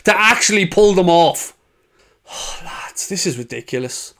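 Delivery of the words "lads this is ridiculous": soft, low, deflated sigh. Real, not acted. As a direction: let the words sag out in despair. Despairing sigh at the defeat.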